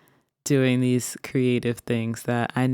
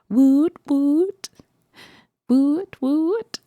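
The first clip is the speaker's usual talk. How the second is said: much higher, louder woot; much higher woot cheer; 11 semitones higher, 3 dB louder, much slower than usual. Acted. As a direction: celebrate the end. Cheering outro.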